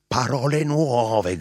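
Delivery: loud, high, drawn-out cry; shouting. A narrator's reading. Narrator answers the two frightened men, shouting. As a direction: proclaim it at full voice, slowly.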